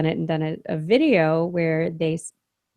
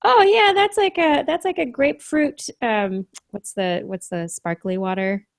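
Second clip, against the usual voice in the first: put-on clueless boyfriend; 2 semitones higher, 4 dB louder than usual. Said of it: "he's like".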